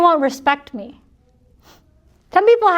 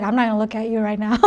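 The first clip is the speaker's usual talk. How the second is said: low, quick, softer refusal; mock refusal; 4 semitones lower, 5 dB quieter, faster than usual. Speaker voicing a listener who won't smile, mock reluctant. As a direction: toss it off fast and under the voice. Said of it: "So you're like".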